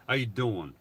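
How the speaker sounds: lightly voiced New York "How you doing"; a hint of a Brooklyn greeting; mild New York accent greeting. Shown as a demonstration. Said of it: "I'm gonna say it with my New York accent".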